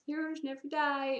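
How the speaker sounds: timid, half-hearted voice line; imitated camera-shy cosplayer. Shy cosplayer giving a voice line, timid imitation. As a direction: say the catchphrase shyly. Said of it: "a little bit camera shy".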